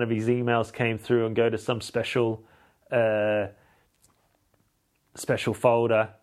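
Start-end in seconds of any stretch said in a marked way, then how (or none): none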